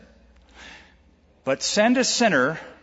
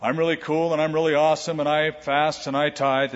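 preen like a self-satisfied Pharisee; preacher imitates a Pharisee praying out loud, lightly smug; boastful Pharisee. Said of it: "he prays out loud".

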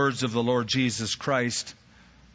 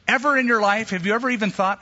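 emphatic; 6 semitones higher, faster than usual. Real, not acted. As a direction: press the question home. Preacher presses congregation.

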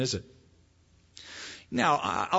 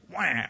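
mock baby wail. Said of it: "So when I wanted something".

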